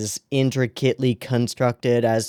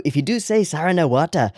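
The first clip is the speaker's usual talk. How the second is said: "Sara na Wata" with Irish vowels; Irish accent; 5 semitones higher than usual. Shown as a demonstration. Vlogger showing how the show title sounds in an Irish accent. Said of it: "in an Irish accent".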